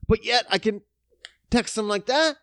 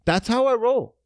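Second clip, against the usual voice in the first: high take; 5 semitones higher than usual. Shown as a demonstration.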